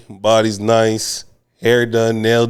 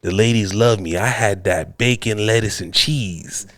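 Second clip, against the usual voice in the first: lightly voiced Mister Johnson. Older patient explaining his nickname, lightly put-on voice. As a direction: lightly play an old-time ladies' man. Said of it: "let me get the voice down properly".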